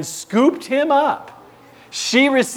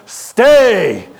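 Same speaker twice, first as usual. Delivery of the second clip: command to dog; 3 semitones higher, 7 dB louder than usual. Retold or imitated. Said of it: "I put him on the seat".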